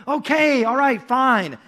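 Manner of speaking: mild mock strain; lightly acted straining to hold on; straining under a load. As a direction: grudgingly give in through the effort. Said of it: "he's, like, straining".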